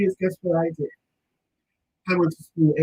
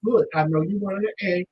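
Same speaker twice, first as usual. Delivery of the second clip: much softer, gentle reassurance; reassuring; 3 dB quieter than usual. Retold or imitated. Family calming niece over a B, softly. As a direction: talk her down quietly. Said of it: "And we're like".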